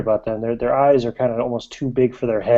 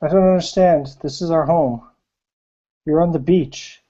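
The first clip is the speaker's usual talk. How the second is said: put-on scared girl; 4 semitones higher than usual. Sobbing girl answers gunman.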